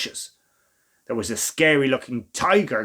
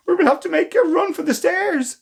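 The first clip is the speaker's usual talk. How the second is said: shouting; 12 semitones higher than usual. Acted. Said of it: "shouted Rose".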